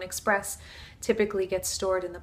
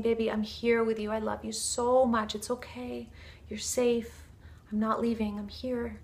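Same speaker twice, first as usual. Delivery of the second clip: tender reassurance. Acted. Mother holding her crying baby, tenderly reassuring. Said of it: "starts to embrace her so dearly".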